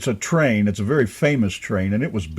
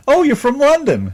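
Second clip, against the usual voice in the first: mock clueless guess; 13 semitones higher, 4 dB louder than usual. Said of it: "A lot of people do that to Donna".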